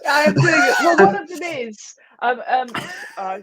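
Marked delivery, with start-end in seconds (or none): 0.1-1.9 lightly voiced heron; a hint of a squawky heron; heron impression. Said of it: "you're doing your heron impression".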